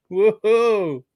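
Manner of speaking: loud, high whoop of joy; excited cheer. Real, not acted. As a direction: cheer for the first member. Cheering his first channel member.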